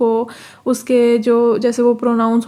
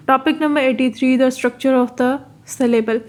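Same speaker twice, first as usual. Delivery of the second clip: slow, formal reading of the topic title; reading out the heading; much slower than usual. Shown as a demonstration. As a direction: announce the new topic slowly. (नए topic का शीर्षक धीरे-धीरे पढ़ना)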